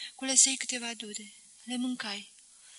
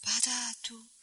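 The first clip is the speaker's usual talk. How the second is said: barely voiced, whispered admission; a hushed voice not her own; changed voice; 6 dB quieter than usual. A narrator's reading. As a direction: let the voice drop almost away. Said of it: "cu un glas care parcă nu mai era al ei".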